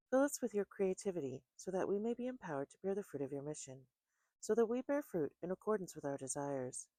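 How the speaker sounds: reverent, measured prayer voice. Acted. Opening prayer before tarot reading.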